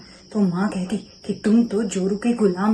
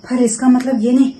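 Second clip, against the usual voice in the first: building from raised voice to a furious shout at the end; angry shout; 3 semitones higher, 6 dB louder than usual. Acted. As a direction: let the anger swell until you're yelling at him. Wife confronts husband over insults. (गुस्से में बढ़ती हुई चीख)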